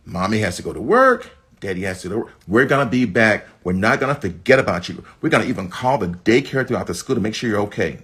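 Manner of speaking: acted parent calmly soothing a child; reassuring parent. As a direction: gently explain to a worried toddler. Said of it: "just reassure them".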